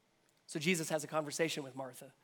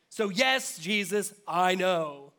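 impatient Martha; 3 semitones higher, 9 dB louder, slower than usual. Acted. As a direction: toss it off with a sigh of impatience. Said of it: "That's what she's getting at".

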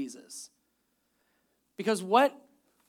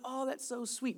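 sentimental gush; 4 semitones higher, 9 dB quieter than usual. Retold or imitated. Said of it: "you're like".

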